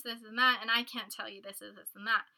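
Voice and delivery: lightly acted, emphatic announcement to a group; opens on a loud callout, then lists the rules firmly; mock announcement. Setting boundaries with the guys, mock announcement. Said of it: "you need to be like".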